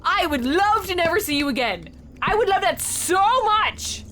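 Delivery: high, emphatic rant; exasperated. Real, not acted. Player wishes the stalker gone for good, exasperated. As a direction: plead to be rid of them, worked up. Player rants at game character.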